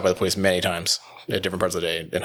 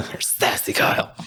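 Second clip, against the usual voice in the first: laughing tease; slower than usual. Real, not acted. Teasing friend through laughter.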